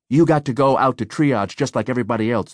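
put-on a young guard lecturing, a bit unsure; awkward lecturing. A narrator's reading. Young guard stopping a patient, awkward lecture. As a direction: lecture her, but awkwardly. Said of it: "the kid lectured awkwardly".

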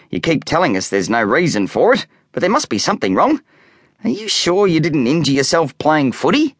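lightly voiced dad; gentle but concerned father; calm dad. A narrator's reading.

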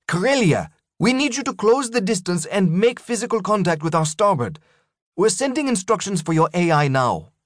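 steady captain giving instructions under pressure; calm female captain. Acted. Legrand explains corrective action.

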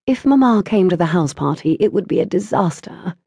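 plain reading voice

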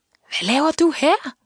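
high, drawn-out call at moderate volume; called-out question. A narrator's reading. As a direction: call over in surprise, pitched high. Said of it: "råbte han så". (råbt spørgsmål i højt, langtrukket toneleje)

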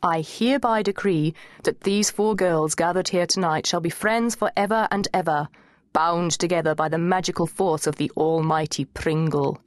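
ceremonial decree with even intonation; mock solemn. A narrator's reading. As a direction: proclaim it like an officiant at a wedding. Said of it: "in my best solemn voice".

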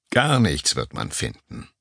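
calm him down gently; reassuring. Acted. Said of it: "beruhigte ihn der Anrufer". (ruhig und beruhigend, langsam)

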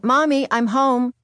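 put-on child calling out, drawn out. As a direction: call into the house, slowly. Child calling out coming home.

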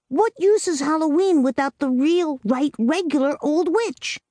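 put-on a small girl laying down the rules; little girl Amy. A narrator's reading.

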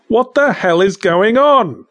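a high, loud cry; startled shout. Acted. Waking in the crypt, shouting in confusion. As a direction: shout it out in alarm. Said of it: "it came out more like woof".

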